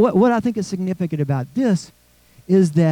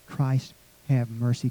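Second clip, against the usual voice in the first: soft and slow, barely voiced; hushed prayer; 4 semitones lower, 8 dB quieter than usual. Shown as a demonstration. Worshippers whispering the prayer, slow and hushed. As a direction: pray it under your breath, slowly. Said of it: "Kinda we whisper that prayer".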